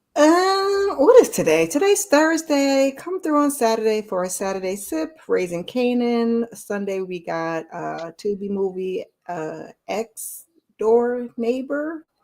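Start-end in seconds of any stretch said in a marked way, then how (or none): 9.3-12.0 very slow, drawn-out. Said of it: "I gotta say it slow".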